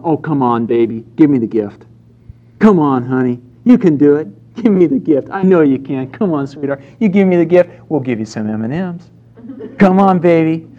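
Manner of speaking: put-on sing-song coaxing of a toddler on the potty; coaxing parent. Parent coaxing a toddler on the potty, sing-song and sweet. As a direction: sweet-talk the baby into trying.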